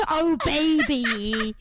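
loud, high, very drawn-out mock swoon; mad romantic couple. Teased for sounding mad as a romantic couple, hammed-up. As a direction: stretch it out hard, hammed-up and crazed. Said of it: "you're also saying it quite mad".

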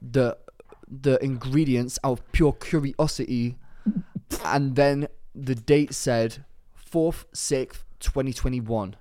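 lightly put-on London roadman accent; attempted roadman accent. Reading a listener's letter as requested, in attempted roadman accent. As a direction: read it out in a half-hearted roadman accent. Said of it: "do it in a roadman accent".

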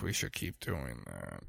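soft close-mic ASMR voice; ASMR whisper. Pretend. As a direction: murmur softly like ASMR. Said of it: "This is an A S M R podcast now".

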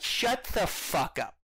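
first take of the retort, dragged out slowly; mock angry retort. Mocking the movie's joke, slow and exasperated. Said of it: "And it's like".

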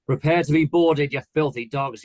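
high, loud battle cry easing off; shouted pirate threat. A narrator's reading. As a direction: shout it like a boy playing pirate captain. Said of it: "Arthur shouted".

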